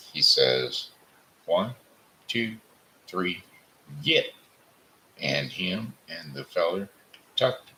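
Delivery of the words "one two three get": a starter's countdown ending in a yelp; one two three, then yell get; count and shout. A narrator's reading. Starting the frog race.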